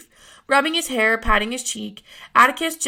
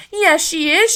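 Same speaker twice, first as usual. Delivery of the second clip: Frances yelling for Grandma, loud and high; shout; 6 semitones higher, 5 dB louder, slower than usual. A narrator's reading. Frances tattles loudly to Grandma, shouting. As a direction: bellow it as a tattling boy. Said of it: "shouted Frances".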